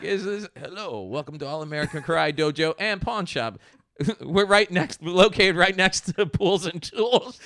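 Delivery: high, loud put-on Jamaican shopkeeper voice; hammed-up Jamaican pawn shop greeting; Jamaican accent. Joking about dad's dojo pawn shop, hammed-up Jamaican accent. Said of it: "You do the accent better".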